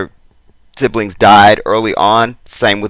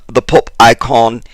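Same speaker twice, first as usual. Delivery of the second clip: fake British accent. Host trying out a fake British accent on the pop icon. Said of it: "I may use my fra-, fake British accent".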